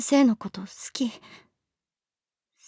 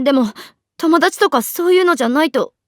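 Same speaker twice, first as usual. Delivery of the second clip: emotional; 6 dB louder than usual. Acted. Emotional confession, voice rising.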